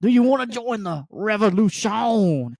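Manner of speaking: high, theatrical hello brother; character voice. Retold or imitated. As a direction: ham it up like a costumed hero. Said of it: "he would not break character".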